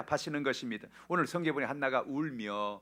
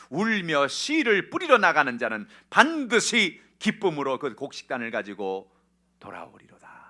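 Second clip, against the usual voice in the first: high, loud slow psalm reading sinking to a hush; preacher's scripture proclamation, fading at the end; proclaimed scripture; 4 semitones higher, 14 dB louder, slower than usual. Acted. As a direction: declaim the verse, then let it fall away.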